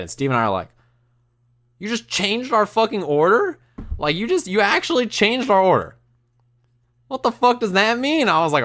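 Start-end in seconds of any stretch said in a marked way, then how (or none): 1.8-8.3 high-pitched, incredulous indignation; high, disbelieving protest; retold outrage. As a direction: act out being outraged at the waitress. Retelling outraged reaction to changed order.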